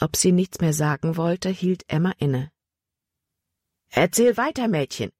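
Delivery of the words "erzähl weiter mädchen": urgent call. A narrator's reading. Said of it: "rief Jordan aus".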